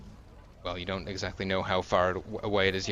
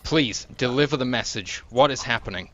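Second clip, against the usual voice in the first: a raised, pleading captain calming a panicked guard; higher and louder, trying to settle him; urgent guard captain; 4 semitones higher, 5 dB louder than usual. Acted. Captain urging the breathless guard to calm down. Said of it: "Thali saying".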